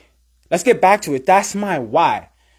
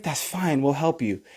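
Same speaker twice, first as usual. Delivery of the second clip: gentle reassurance; 3 semitones lower, 8 dB quieter than usual. Retold or imitated. The sport voiced reassuring a newcomer.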